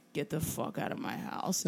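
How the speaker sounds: low, slow gruff mock Harrison Ford, lightly done; hint of a grumbling Harrison Ford; Harrison Ford impression. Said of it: "in his most Harrison Fordy way".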